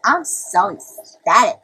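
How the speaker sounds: slow, loud, drawn-out declaration of delight; exaggerated slow excitement; mock ecstasy. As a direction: stretch out ECSTATIC, hammed-up. Hamming up how happy they are.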